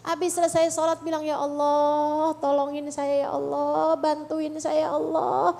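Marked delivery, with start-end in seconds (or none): 1.2-5.5 slow, drawn-out plea to God; acted supplication, settling down at the end; pleading prayer. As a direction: beg God for help, stretching the words.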